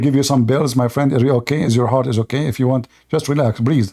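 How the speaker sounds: low-pitched, feigned soothing; mock concern. Debater offers rattled opponent pills and breathing advice, mock concern. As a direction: talk a rival down with low, pretend care.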